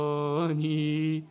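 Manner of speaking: drawn-out, very slow word; mock slow. Shown as a demonstration. Preacher mocking slow speech, drawn out. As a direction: stretch it out to show slowness. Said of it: "이런 의미가 아니겠죠".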